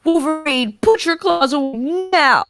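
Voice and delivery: shouted order. Acted. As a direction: stop him with a sharp order. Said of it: "shouted a voice".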